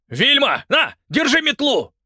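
очень высоко и громко; торопливо подаёт метлу; взволнованный крик. A narrator's reading. Муж кричит жене. (муж в азарте кричит жене)

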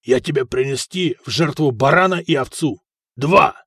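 fervent vow. Acted. Gambler vows sacrifice, calls the throw.

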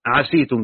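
عسيتم with the س taking i, ʿasītum; Nafi's reading. Shown as a demonstration. Teacher reciting Nafi's reading of عسيتم with i. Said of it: "بكسر السين".

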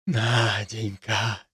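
very soft, slow dreamy drawl; silly drawn-out. A narrator's reading. Besotted father repeating the name, dreamy drawl. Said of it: "глупо протянул Чибис".

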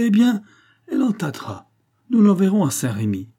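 high, forceful verdict; acted stern decree; authoritative threat. A narrator's reading. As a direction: pronounce the sentence with full conviction. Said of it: "avec une autorité et une conviction".

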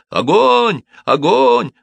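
very high, loud yells; shouting. A narrator's reading. Cobbler urging the soldiers to fire, shouting. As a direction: yell the command high and hard. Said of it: "Симон кричал".

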